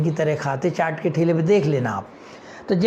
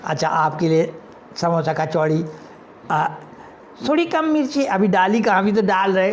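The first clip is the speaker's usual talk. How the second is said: lightly voiced vendor. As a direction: reassure the customers.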